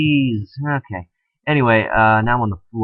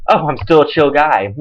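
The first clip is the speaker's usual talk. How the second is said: dry sarcastic repeat of "chill guy"; mock being flattered; sarcastic echo; 4 semitones higher than usual. Real, not acted. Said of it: "That makes you feel so much better".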